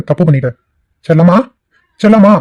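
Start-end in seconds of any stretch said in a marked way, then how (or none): 1.0-1.4 calling out. Acted. Calls wife from inside house. 2.0-2.3 higher-pitched call on Chellamma; insistent calling out. Acted. Calls wife a second time, raised.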